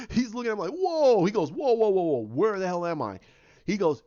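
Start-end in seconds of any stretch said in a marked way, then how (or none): 0.7-1.2 high, loud mock-startled cry; retold outburst of shock; acted astonishment. Hero shocked by where he is. 1.5-3.2 mock-panicked, loud retold outburst; acted alarm. Bewildered hero demands where he is.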